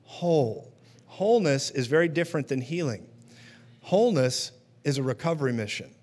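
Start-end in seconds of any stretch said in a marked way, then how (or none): 0.0-0.7 slow, lightly voiced Jesus blessing; a hint of a gentle Jesus sending him off. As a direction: say it slowly, like a calm blessing. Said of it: "And he said".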